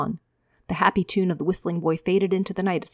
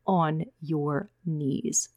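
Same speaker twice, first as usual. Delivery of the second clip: very slow, softer cold order; cold command; 4 dB quieter, much slower than usual. Acted. Micah ordering the boy down, slow and cold. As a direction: lay out each word like a threat.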